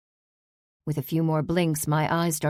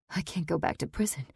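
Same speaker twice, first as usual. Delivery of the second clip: soft, voiced near-whisper; 5 dB quieter, faster than usual. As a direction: breathe the words, scared. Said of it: "I whispered".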